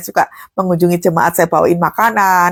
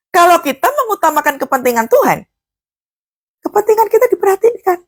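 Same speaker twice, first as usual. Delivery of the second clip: emphatic; 9 semitones higher than usual. Acted. Sermon climax point.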